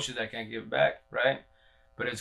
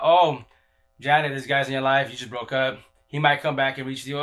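robotic tarot reader. Retold or imitated. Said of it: "It's all fucking robotic".

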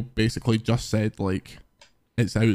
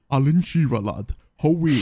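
Geordie impression. Shown as a demonstration. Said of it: "I'll do it again".

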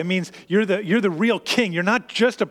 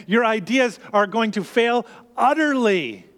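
stern professor; 4 semitones higher than usual. Acted. Professor predicts thesis failure.

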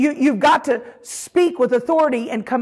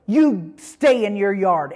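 slow, weighty command; voice of authority; 3 semitones lower, slower than usual. Shown as a demonstration. Owner warning her straying dog, slow authority. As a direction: spell out the order slowly and firmly. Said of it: "And I say it with authority".

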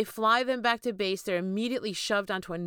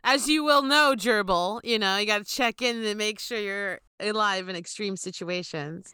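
mock announcer; 4 dB louder than usual. Mock instructional voice to co-host.

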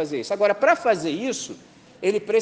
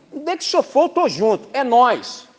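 eager follower; 7 semitones higher, 7 dB louder than usual. Retold or imitated.

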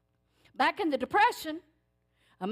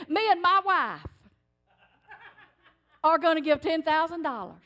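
proud loud pledge; 4 semitones higher, 7 dB louder than usual. Retold or imitated. Husband pledging their savings.

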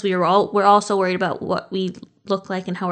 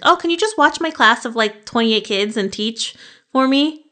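pitched up and louder, then slowing down; pleading teacher ask; 4 semitones higher, 4 dB louder than usual. Pretend. Teacher asking a colleague to cover her class, sweetly pleading. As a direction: ask a huge favor with breezy cheer. Teacher making an outlandish request.

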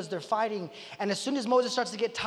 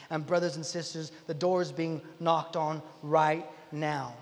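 lower, measured earnest exhortation; solemn appeal; 4 semitones lower, 3 dB quieter than usual. Real, not acted. Preacher to brothers and sisters about the church, solemn appeal. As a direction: bring it down and urge them sincerely.

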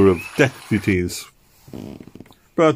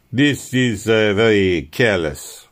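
a fussy, louder scolding; fussy exclamation; 2 semitones higher, 4 dB louder, slower than usual. Acted. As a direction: tut at the careless visitor. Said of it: "he exclaimed fussily".

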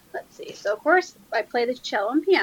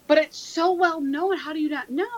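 retold incredulity; 4 semitones higher, 4 dB louder than usual. Retells incredulous reply to friends.

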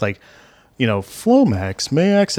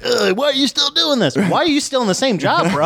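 exasperated police captain; 10 semitones higher than usual. Retold or imitated. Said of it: "he's like".

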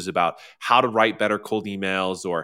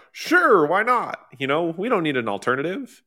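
high, easygoing "sure, why not"; mock breezy agreement; 7 semitones higher, 3 dB louder than usual. Host imitates companies content with the old way, breezily. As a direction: voice complacent companies shrugging it off, pitched well up. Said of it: "companies are like".

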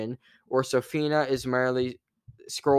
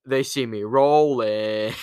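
louder, slow called-out meme line; screamed line; 5 dB louder, slower than usual. Retold or imitated. In the theater as the dragon rolls, louder slow call-out. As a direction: belt it out slow, like yelling in a theater. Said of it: "I just screamed".

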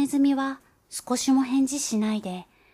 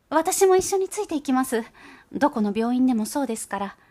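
high, loud anxious mouse voice; cling to your child, high and urgent; anxious mother mouse; 4 semitones higher, 6 dB louder than usual. Acted. Mother mouse begs Gauche to go with her child, high and anxious.

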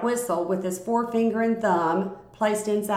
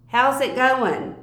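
slow, loud, higher call; yelling; 4 semitones higher, 4 dB louder, slower than usual. A narrator's reading. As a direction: call it out across the street. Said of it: "started yelling out stuff at us".

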